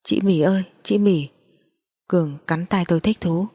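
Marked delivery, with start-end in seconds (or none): 0.0-1.3 frightened call for help. A narrator's reading. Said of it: "tôi sợ quá la lên".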